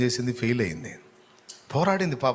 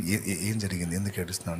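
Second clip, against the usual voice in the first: gentle husband; 3 semitones lower, 4 dB quieter than usual. Acted. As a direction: lower and softer, coaxing questions. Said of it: "నిమ్మళ్ళు పరిచి పైకి లేపి". (మెల్లగా, మృదువుగా, ఓదార్పుతో)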